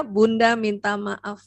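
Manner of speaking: slow, gentle "Bunda minta maaf"; correct apology. Shown as a demonstration. Mother modelling the right apology, slow and gentle. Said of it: "Ingat ya kalimatnya ya".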